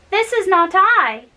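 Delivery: dismayed and mildly alarmed; frightened. Acted. Gretel, refused at her own door, mildly frightened. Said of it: "said she, frightened".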